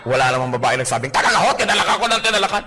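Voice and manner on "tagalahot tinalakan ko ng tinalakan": mock nagging. Wife boasts of nagging.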